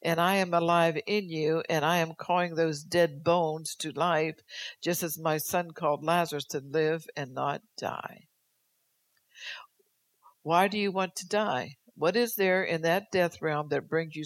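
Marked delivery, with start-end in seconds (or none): 0.0-8.3 proclaiming God. Acted. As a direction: declare life over them. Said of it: "God said".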